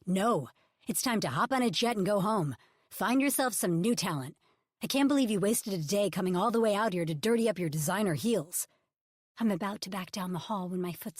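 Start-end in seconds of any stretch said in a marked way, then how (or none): 0.0-8.7 louder, cutting dismissal; dismissive scorn. Acted. Ridge ordering Bebe to fly home, loud and scornful. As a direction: send her packing.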